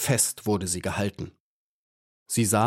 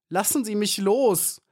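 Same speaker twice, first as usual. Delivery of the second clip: mild scream; 11 semitones higher than usual. A narrator's reading. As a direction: cry out to be released, in a storyteller's measure. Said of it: "schrie Maya". (hoher, gemäßigter Schrei)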